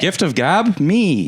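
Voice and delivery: loud dumb caveman talk. Pretend. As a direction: grunt it like a caveman.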